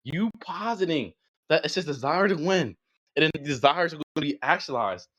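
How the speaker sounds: measured delivery with long pauses; slow and deliberate. Real, not acted. Debater walks opponent through the demand, slow and deliberate. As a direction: lay it out phrase by phrase, slowly. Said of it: "say this slowly and concisely for you".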